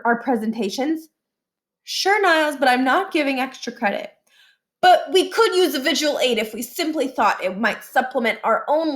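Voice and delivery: a hint of a keen pupil angling for credit; eager student. Niles presses Miss Shandy about visual aids, lightly eager. Niles voiced asking teacher.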